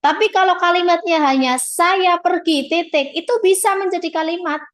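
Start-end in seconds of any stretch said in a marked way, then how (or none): 1.6-3.1 "saya pergi" slow and raised, closed off with "titik"; short model sentence "saya pergi", stretched out and ended firmly on "titik"; final intonation. Shown as a demonstration. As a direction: say "saya pergi" slowly as a complete example sentence, then "titik". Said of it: "karena sudah punya intonasi final".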